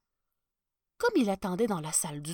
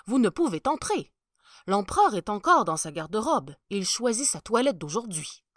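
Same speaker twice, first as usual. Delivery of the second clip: louder, respectful soldier at the door; firmly block the way, politely; a touch of a stiff palace guard; 7 dB louder than usual. Acted. Guard refuses entry.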